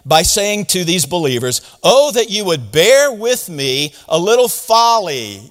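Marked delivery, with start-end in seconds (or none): 1.8-5.5 slow scripture reading. Shown as a demonstration. Pastor reading Paul's line to the congregation, slow and deliberate. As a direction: read slowly and deliberately. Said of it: "You know what he's saying there?".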